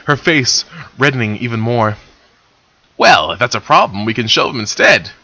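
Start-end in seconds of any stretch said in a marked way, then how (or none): 3.0-5.1 smirking. Acted. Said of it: "he replied with a smirk".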